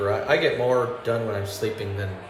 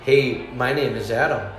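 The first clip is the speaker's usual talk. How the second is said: slightly wrong copied voice. Shown as a demonstration. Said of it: "what if they sounded like this".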